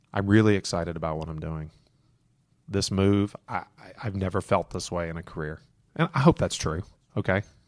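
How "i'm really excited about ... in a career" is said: softened, toned-down, dropped tone. Demonstrating what to say in a meeting about a career move: softened, lowered tone. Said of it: "Soften the speech".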